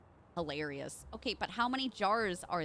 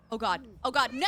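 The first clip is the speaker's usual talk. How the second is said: loud alarmed cry; real fright, louder; panicked shout; 6 dB louder, faster than usual. Real, not acted. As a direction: yell as the jump goes bad. Risky jump in game.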